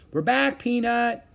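high, singsong hello; happy greeting. A narrator's reading. Annie back with Peanut the mouse, happy greeting. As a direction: greet a pet in a high, delighted voice.

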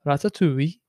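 tentative Welsh accent; a hint of Welsh accent. Shown as a demonstration. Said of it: "Say it in a Welsh accent".

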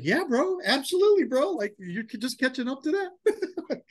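high, laughing, slowing at the end; laughing agreement. Retold or imitated. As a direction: chuckle along with a buddy. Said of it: "He's like".

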